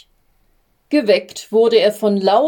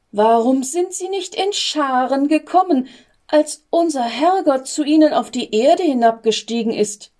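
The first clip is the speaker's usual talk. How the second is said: lightly raised, plaintive little angel; worried angel voice; 4 semitones higher than usual. Acted. Little angel complaining to Gabriel, lightly higher and plaintive. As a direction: fret a little, voice lifting on the questions.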